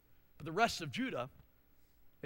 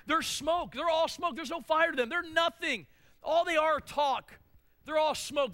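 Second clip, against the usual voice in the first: scornful emphasis; 8 semitones higher, 5 dB louder than usual. Real, not acted. Scornful emphatic preaching about enemies.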